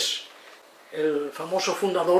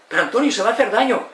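worried protest; 5 semitones higher, 4 dB louder, faster than usual. Retold or imitated. Friend's worried protest acted.

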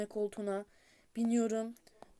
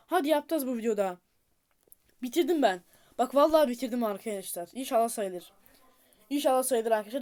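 louder, rising triumph; excited cheer; 2 semitones higher, 6 dB louder than usual. Real, not acted. Gamer cheers finishing the run to his viewers, excited and loud.

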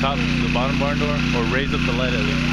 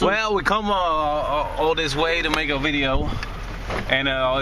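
higher, hammed-up British accent; clumsy fake British voice; horrible British accent; 6 semitones higher than usual. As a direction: put on a bad British accent for the camera. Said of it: "That's a horrible accent".

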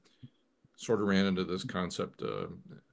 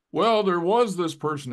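slow, high, louder mock German accent; imitated German accent; 11 semitones higher, 11 dB louder, slower than usual. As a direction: drag out a deadpan German scientist's accent. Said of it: "with German accent".

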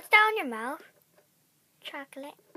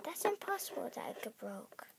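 softer, unvoiced aside; whisper; 6 semitones lower, 8 dB quieter than usual. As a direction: hiss it quietly in disbelief. Scoffing aside.

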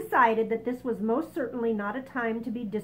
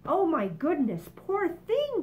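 higher, louder fussing cry; ladybug crying out; 8 semitones higher, 4 dB louder than usual. Acted. Ladybug cries out in pity for the boy, high. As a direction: rise up with pity on poor thing. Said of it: "cried the ladybug".

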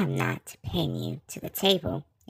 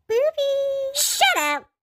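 shouting; 7 dB louder than usual. Acted. Outburst at teasing.

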